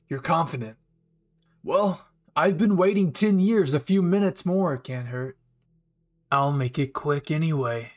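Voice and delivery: amused villain. Acted. Villain Kirishima accepting Bakugo's challenge, amused. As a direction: accept the duel with a chuckle.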